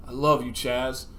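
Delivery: simple, understated last words; dying declaration. Acted. Dying Rex to his best friend, understated declaration. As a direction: say it gently, as if to a close friend. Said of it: "with his last breath".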